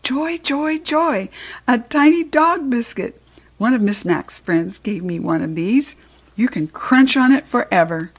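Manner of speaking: high, squeaky joy; excited hamster. Acted. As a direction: squeal it like a tiny happy hamster.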